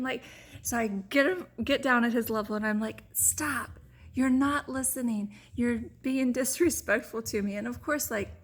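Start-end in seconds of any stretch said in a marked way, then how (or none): 3.1-7.5 retold stern parental telling-off; very serious. Mother gets down at her child's level, very serious. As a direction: tell the child off firmly, in retelling. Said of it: "I'm being very serious".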